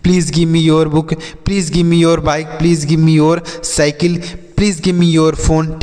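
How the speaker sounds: slow, clear dictation of each sentence; teacher saying each word slowly for the class; slow model sentences. Shown as a demonstration. Teacher models sentences for children, slow and clear. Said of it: "तो आप ऐसे बोल सकते हैं".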